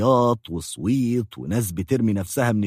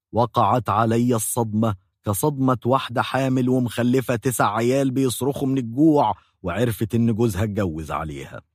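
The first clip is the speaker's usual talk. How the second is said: usual speaking voice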